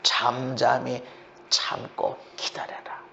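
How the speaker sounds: low, slow, very soft; quiet, measured call to be still; hushed patience. Acted. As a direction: drop to a near-whispered instruction. Models silent, patient waiting.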